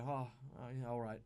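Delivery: mumbled awkward reply; awkward mumble. Retold or imitated. A player backing down from the guards, mumbling awkwardly. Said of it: "awkwardly go".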